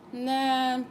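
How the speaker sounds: high, loud scolding spirit voice; a spirit voice telling her no; spirit's voice. Retold or imitated.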